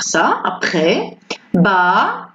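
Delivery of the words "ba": "Ba" ending on an open A; "Ba" as a careful model with silent final S. Shown as a demonstration. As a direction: say "Ba" with no S at the end. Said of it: "on prononce pas le S".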